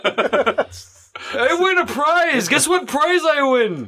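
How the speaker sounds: slow gloating. Acted. Killer gloating slowly.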